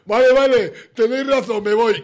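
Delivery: mock quote. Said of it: "el típico que dice".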